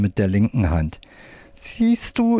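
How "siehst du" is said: squeaky puppet voice. A narrator's reading. Left-hand puppet speaks.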